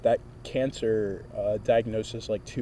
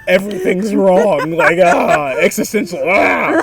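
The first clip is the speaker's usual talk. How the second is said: mock childish whine, louder and higher; a five-year-old running to mom with a boo-boo, whining; little kid whining; 8 semitones higher, 12 dB louder than usual. Imitating a whiny five-year-old, louder. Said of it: "five-year-old me ran to my mom".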